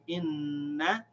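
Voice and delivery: "inna" with a long held n, then short a; stretched demo of "inna"; connected doubled n. Shown as a demonstration. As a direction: slowly hum through the n of "inna". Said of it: "so we connect them".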